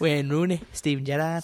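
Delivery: put-on Scouse roll-call of names; comic Scouse accent; Liverpool accent. Shown as a demonstration. Listing footballers for the cohost, Liverpool accent. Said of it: "give us some more Liverpool accent".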